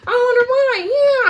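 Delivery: drip sarcasm at the liars; sarcastic. Pretend. Quoting herself mocking the missing facts, sarcastic high voice. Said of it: "that's why I said".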